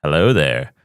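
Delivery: a hint of an old British actor; Alec Guinness. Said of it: "he took the old Alec Guinness".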